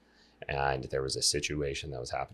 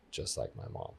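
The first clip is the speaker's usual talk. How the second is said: low, hushed, stunned; quiet realization; 8 semitones lower, 5 dB quieter than usual. Real, not acted. Guest admitting to listeners he is like his mom, low and hushed. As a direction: let it sink in, low and quiet.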